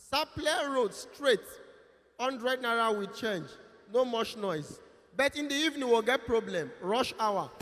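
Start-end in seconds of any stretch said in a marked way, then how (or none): 0.1-3.5 conductor's call. Retold or imitated. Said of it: "Go dey shout".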